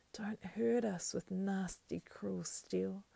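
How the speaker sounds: high, drawn-out creature whimper; weeping plea. A narrator's reading. Creature begging to be spared the sword, tearful. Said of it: "he wept".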